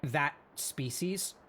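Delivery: talking through a mouthful of food; mouth full. Real, not acted. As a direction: say it around a bite of food. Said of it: "sorry, I have my mouth full".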